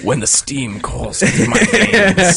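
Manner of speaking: hammed-up grand steam-man; mock epic proclamation. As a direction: declaim it like a villain origin. Mock steampunk origin speech.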